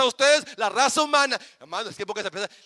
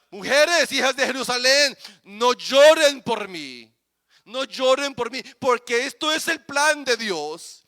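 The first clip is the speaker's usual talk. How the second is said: Jesus speaking; 5 dB louder than usual. Acted. Voicing Jesus to the women.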